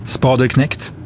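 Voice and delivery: reluctant, tentative answer. A narrator's reading. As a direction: offer the guess unwillingly. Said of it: "sa Halidon motvilligt".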